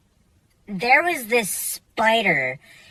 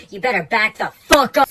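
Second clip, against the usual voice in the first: louder tough-guy warning; mock threat; 6 dB louder than usual. To the sergeant in the water, a loud mock threat. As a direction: warn him off, loud and cocky.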